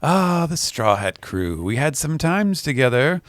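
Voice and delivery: musing, rising toward the end; wistful reminiscing. Acted. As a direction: linger fondly over old memories. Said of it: "And he is reminiscing".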